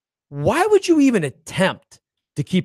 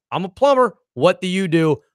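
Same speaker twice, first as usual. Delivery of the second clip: deadpan. Retold or imitated. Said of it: "It was just like".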